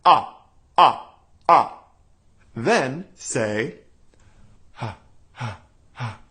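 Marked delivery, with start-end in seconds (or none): 0.0-1.8 loud, solid ah with tight cords; compressed ah. Shown as a demonstration. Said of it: "Say it again". 4.7-6.2 soft, airy ha with loose cords; breathy ha. Shown as a demonstration. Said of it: "how breathy the voice sounds".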